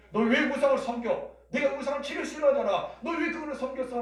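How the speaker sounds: high-pitched acted scolding; mock rebuke. Imagined God reproaching Abraham over idols, mock scolding. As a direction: scold with indignant questions, pitched well up. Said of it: "책망하십니까?".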